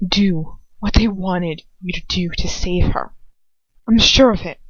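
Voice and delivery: firm, steady reassurance, starting half whispered; firmly reassuring friend. Acted. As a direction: hold his gaze and insist. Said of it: "I say firmly".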